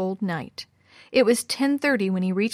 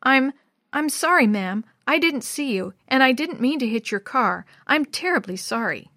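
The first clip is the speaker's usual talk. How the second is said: stammering; 4 semitones higher than usual. Acted. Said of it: "he stammered".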